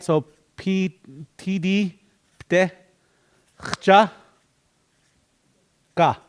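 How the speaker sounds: P, T, pte, chcha, ka each said apart; syllable by syllable. Shown as a demonstration. Teacher breaking Lakota word into syllables. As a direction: break Ptechchaka into its parts. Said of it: "better when we break it down".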